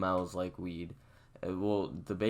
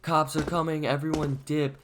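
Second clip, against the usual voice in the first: higher, louder imitation of a friend yelling; retold warning yell; 7 semitones higher, 5 dB louder than usual. Friend warning everyone that cops are coming, retold yell. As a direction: call out an urgent alarm, retelling it. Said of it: "Luke just yells out".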